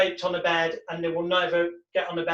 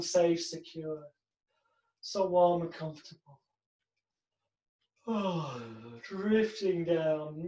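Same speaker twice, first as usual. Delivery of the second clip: hypnotic script. Shown as a demonstration. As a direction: let your voice drift down to sleep. Hypnotist reads bed deepener.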